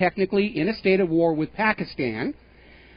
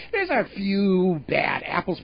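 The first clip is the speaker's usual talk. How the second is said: mock banker; slower than usual. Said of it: "basically going on and saying".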